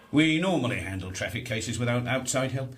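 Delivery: dry, sarcastic jab; heavy sarcasm. Acted. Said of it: "Spare me your heavy sarcasm".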